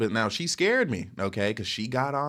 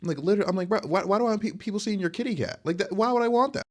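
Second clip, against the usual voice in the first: raised, disbelieving bro-to-bro objection; indignant retort; 8 semitones higher than usual. Retold or imitated. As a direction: push back like it's absurd. Retelling his indignant reply to girl.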